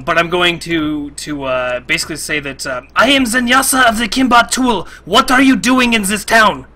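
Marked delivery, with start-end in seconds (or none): 2.9-6.7 raised, higher projected voice; loud hail. Acted. Player hailing the dragon over the town, loud important announcement. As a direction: call it up to the sky, sounding important. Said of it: "in the loudest voice that I can create".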